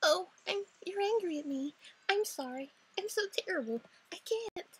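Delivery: high, loud weepy apology; tearful student. Acted. Student apologizing to teacher, tearful.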